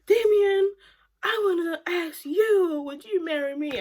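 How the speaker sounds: hammed-up tearful girlfriend; mock teary proposal. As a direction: imitate her proposing, overdone. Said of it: "she's like".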